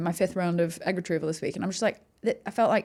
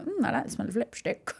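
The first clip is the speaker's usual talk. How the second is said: put-on childlike savouring; 3 semitones higher, 6 dB quieter than usual. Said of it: "being like".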